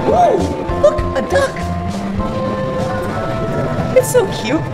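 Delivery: high, delighted squeal at the duck; excited squeal. Real, not acted.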